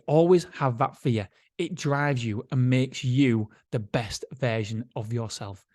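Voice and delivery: slow, deliberate delivery, falling away at the end; dramatic quote reading. Acted. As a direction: read the key line out slowly and weightily.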